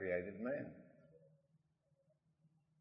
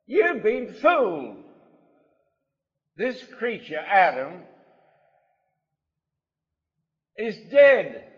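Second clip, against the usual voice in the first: forceful preaching; 12 semitones higher, 14 dB louder than usual. Acted. Preacher exhorting his congregation, loud and forceful. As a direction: drive each line home to the congregation.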